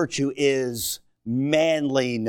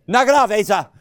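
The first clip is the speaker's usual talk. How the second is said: laughing tease; 6 semitones higher, 6 dB louder than usual. Real, not acted. Laughing at joking son.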